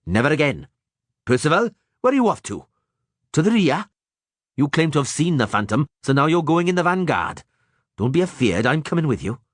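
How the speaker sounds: rough, hearty dwarf voice; gruff dwarf. A narrator's reading. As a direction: own it, ashamed but brave. Zoltan voiced.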